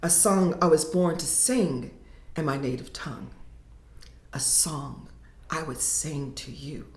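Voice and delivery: poem reading. Acted. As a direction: read it like a poet performing her own work. Poet reads her poem aloud.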